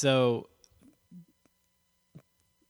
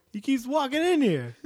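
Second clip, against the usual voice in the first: entitled customer impression; 7 dB louder than usual. Joins the customer bit.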